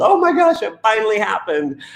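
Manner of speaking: high, elated oh my gosh; delighted gasp. Retold or imitated. Parent hearing their child's first unprompted I love you, overjoyed. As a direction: rush of joy at finally hearing it.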